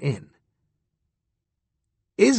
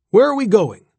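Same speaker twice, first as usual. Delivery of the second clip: bewildered question; 7 semitones higher, 5 dB louder than usual. Acted. Confused old astronaut asking.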